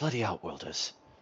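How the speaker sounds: low, quiet muttering. Recounting a scene, voicing Vlad as he mutters. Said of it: "Vlad just kind of mutters".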